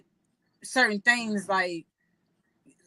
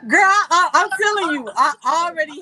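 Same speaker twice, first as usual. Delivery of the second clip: excited; 7 semitones higher, 7 dB louder than usual. Real, not acted. Emphatic call to listener.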